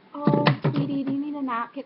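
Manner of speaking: high, loud mock-sweet cooing; talking down to a child. Older person babying a fourteen-year-old, mocking condescending coo. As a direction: imitate a condescending grown-up cooing at a little kid. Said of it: "act like I'm, like, seven".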